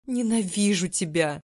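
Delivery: tearful cry of hurt; through tears. A narrator's reading. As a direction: shout it while weeping. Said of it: "сквозь слёзы сказала я". (сквозь слёзы, с обидой)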